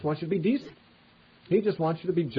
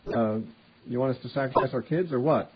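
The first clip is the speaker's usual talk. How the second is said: snide. Retold or imitated. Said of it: "they act sort of snidely".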